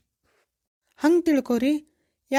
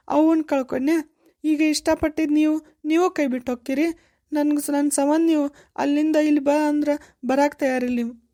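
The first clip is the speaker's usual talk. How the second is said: tearful; 3 semitones higher than usual. Acted. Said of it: "ಅಳಬೇಡ, ಕಣ್ಣ್ ಒರೆಸ್ಕೊ".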